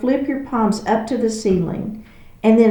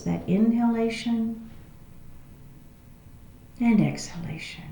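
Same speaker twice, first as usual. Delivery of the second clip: guided breathing; 4 dB quieter than usual. Real, not acted. Teacher settling the class before practice, calm guided breathing. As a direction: ease them into the breath, unhurried.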